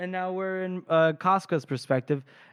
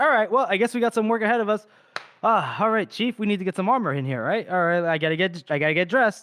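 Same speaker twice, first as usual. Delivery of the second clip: high, fast, loud, breezy, rattled-off character voice. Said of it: "and he's like".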